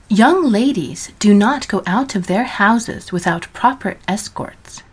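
every word spelled out, a velvet threat; carefully enunciated. A narrator's reading. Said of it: "each word carefully enunciated, a velvet threat".

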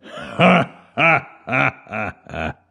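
a big rolling ha ha ha; booming god's laugh. Acted. God laughing at the sleeping granny, rumbling. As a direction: laugh like it shakes the walls. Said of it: "Veles' laugh rumbled the ceiling".

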